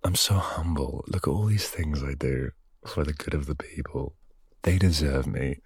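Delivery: lightly voiced smug pope; a hint of self-satisfied grandeur; mock pompous pope. Vlogger mocking an old pope's vanity, lightly hammed-up. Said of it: "I can just imagine him writing this".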